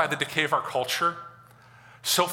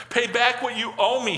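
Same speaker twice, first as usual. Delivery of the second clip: high, mildly forceful demand; 8 semitones higher, 3 dB louder than usual. A narrator's reading. Servant demanding repayment from his fellow servant, raised-voice demand. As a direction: press for the money in a raised voice. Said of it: "he demanded".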